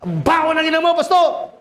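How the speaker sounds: high, taunting insult; mocking possessed man. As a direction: jeer back at the pastor. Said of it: "Naiintindihan niyo?". (high-pitched na pang-aasar ng sinasapian sa pastor)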